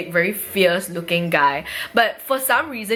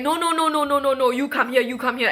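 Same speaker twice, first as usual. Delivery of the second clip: urgent ordering; 5 semitones higher than usual. Retold or imitated. Acted officers ordering her back.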